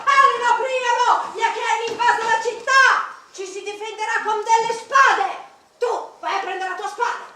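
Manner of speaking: loud, high urgent yelling; shouting alarm. Pretend. Waking the guards by shouting that the Achaeans invaded, loud alarm. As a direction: rouse the sleepers in panic. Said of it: "Li sveglieremo urlando".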